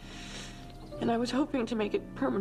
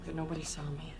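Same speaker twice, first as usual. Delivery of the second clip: whispering; 3 semitones lower, 5 dB quieter than usual. Acted. Sneaking in secretly.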